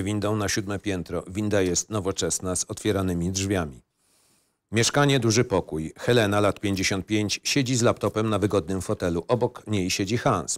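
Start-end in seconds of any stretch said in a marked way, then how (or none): none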